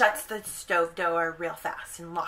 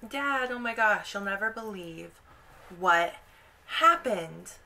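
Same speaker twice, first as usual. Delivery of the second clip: much higher, eager calling out to parents; excited kids; 5 semitones higher than usual. Retold or imitated. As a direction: rush in calling for mom, high. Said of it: "they're like".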